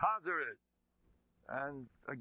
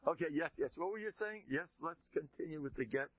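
flustered officiating rabbi; 6 semitones higher than usual. Acted. Rabbi returns to paperwork.

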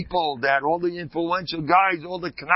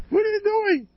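mock shock. Mock rebuke to the husband.

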